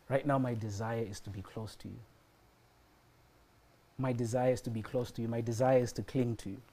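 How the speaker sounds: softly retold prayer, with long pauses; quiet heartfelt prayer. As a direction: pray it softly and sincerely, unhurried.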